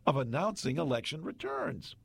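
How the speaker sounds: animated, emphatic story read; dramatic newspaper read. Acted. Radio host reading Globe's election story to co-host, emphatic newspaper read. Reads the old story aloud.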